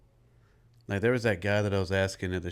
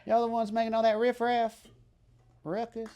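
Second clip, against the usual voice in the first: high put-on scolding voice, much higher; mock scolding voice. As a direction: play a cranky neighbour scolding the noisy bunch. Mock scolding the riff raffs.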